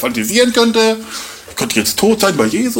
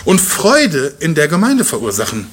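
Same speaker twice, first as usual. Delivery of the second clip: higher, fervent Paul voice; earnest Paul; 4 semitones higher than usual. Retold or imitated. Paul telling the believers he wants to help them, higher and fervent. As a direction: plead warmly for the church.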